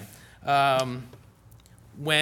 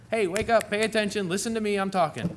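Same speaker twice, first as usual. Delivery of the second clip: higher, insistent call to wake up and listen; mock wake-up call; 6 semitones higher than usual. Preacher voicing Jesus calling listeners to pay attention. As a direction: rouse a drowsy listener. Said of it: "He says over and over again".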